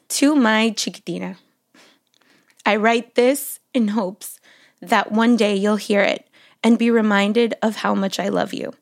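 measured love-letter reading with long pauses; composed, deliberate reading aloud. Real, not acted. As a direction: read a love letter to your daughter, phrase by phrase. Reads her love letter aloud.

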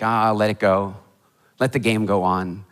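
low, easygoing dismissal; unbothered referee letting play continue; calm letting-go. Acted. Referee calmly waves an offence on.

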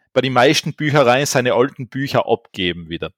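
overdriven mic, distorted; clipping, too hot on the mic. Real, not acted. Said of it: "Du übersteuerst leicht".

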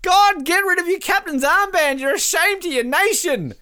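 half-joking shame, said loud; mock outrage. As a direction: scold the captain in jest. Mock scolding Swedish captain.

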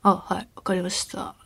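whispered, slow and uninterested; bored, listless reply. Retold or imitated. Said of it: "ずっとだるい感じで言ってて". (だるそうな気のない小声の返事)

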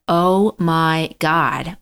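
very slow, drawn-out disbelief; retold dread. Standing frozen on the boat deck, slow understated dread. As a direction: stretch each word out in mild dread.

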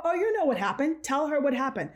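high, mildly indignant comeback; retold retort. Younger self confronting the boys, retold indignation. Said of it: "I go".

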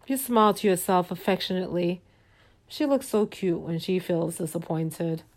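soft, measured storyteller voice; storytelling narration. A narrator's reading. Narrator leading listeners into a fantasy evening, soft storytelling. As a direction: lay out the scene gently and evenly.

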